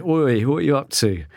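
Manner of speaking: mock Dorset yokel voice for the razor clam; Dorset accent. Host voicing a razor clam in a mild Dorset accent. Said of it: "in a Dorset accent".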